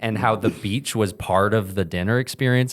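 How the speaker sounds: amused, breaking into chuckles; real laugh running under the words; laughing recap. Real, not acted. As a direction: talk through real laughter. Laughing while recapping the night.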